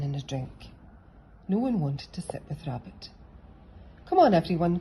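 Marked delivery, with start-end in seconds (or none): 4.0-4.8 louder call to the group. A narrator's reading. Teacher calling the children to the first race. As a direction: call everyone over. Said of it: "called Miss Hoot".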